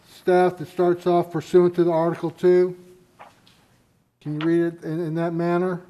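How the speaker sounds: muffled through a face mask; speaking through a mask. Real, not acted. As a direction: talk with a mask over the mouth. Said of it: "I'm speaking through a mask here".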